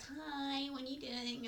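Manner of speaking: softly sing-song, casual greeting; intruding sibling. Retold or imitated. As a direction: poke your head in innocently, softly. Mimics sibling popping into room.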